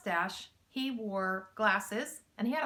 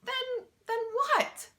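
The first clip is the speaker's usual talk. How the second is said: breathless laughing; 13 semitones higher, slower than usual. A narrator's reading. Mac answers thieves while laughing, breathless. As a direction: pitch jumping up, gasping between laughs. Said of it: "laughing so hard".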